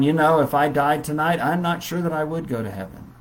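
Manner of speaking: a worried believer unsure of heaven; fearful doubt. Retold or imitated. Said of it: "actually telling someone".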